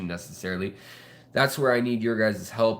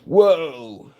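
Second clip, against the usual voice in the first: surprised whoa; 5 semitones higher, 7 dB louder than usual. Real, not acted. Fish suddenly go for food.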